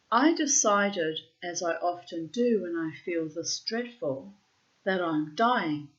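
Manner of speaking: measured, deliberate literary reading; journal read aloud. Acted. Writer reading their diary to listeners, measured recital. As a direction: read it out in weighted, separated phrases.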